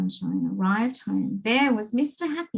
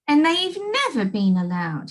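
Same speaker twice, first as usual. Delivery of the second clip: sobbing; 6 semitones higher, 4 dB louder than usual. Acted. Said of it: "he sobbed".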